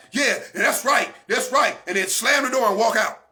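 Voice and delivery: lightly voiced comic advice; Kevin Hart quote. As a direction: retell a comedian's bit. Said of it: "Kevin Hart said".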